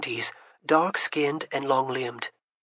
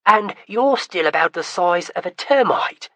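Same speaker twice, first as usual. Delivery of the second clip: a light mocking tease, louder; teasing; 3 semitones higher, 6 dB louder than usual. Kamira teases Vincent about his height. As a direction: poke fun at his size. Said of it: "Kamira teased".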